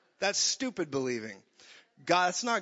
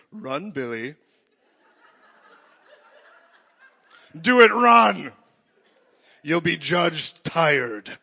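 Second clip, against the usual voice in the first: hammed-up god yelling much louder, then dragging it out slow; mock Zeus bellowing at a fleeing man; taunting Zeus; 12 dB louder, slower than usual. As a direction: shout it like a vengeful god, then stretch the threat. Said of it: "And then he's like".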